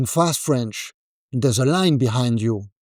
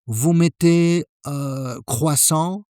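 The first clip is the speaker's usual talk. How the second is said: hesitant order that stalls on the number; freezing up; slower than usual. Shown as a demonstration. Customer freezing at the counter, hesitant and stalling. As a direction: lose your nerve mid-order. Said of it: "This is where most people freeze".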